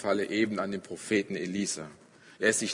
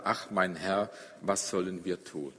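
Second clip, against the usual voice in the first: fearful plea; 4 semitones lower, 6 dB quieter than usual. A narrator's reading. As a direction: ask the master quietly in dread. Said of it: "angstvoll fragt er". (ängstlich und leise gefragt)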